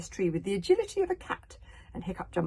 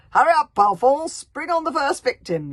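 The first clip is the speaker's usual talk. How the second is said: loud, higher bellowed order; yelling; 9 semitones higher, 15 dB louder than usual. Acted. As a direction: roar at the henchman. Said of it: "yelled the chief Berserk".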